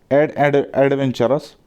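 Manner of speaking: एडवेंचरस broken into its first sound एड, then said whole; syllable-by-syllable demo. Shown as a demonstration. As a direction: stress the opening vowel sound of एडवेंचरस. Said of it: "एडवेंचरस traveller". (एडवेंचरस का पहला स्वर अलग से बोलना)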